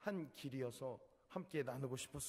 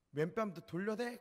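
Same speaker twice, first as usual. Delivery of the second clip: jeering question, higher and louder; mocking taunt; 6 semitones higher, 5 dB louder than usual. Drunk man taunting Manho before hitting again, mocking. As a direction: sneer as you ready the next punch.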